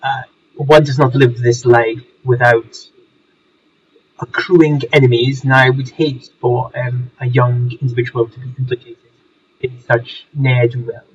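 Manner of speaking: posh English gentleman voice; home counties accent. Acted. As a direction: speak as a refined old Englishman. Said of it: "this is not a Surrey accent".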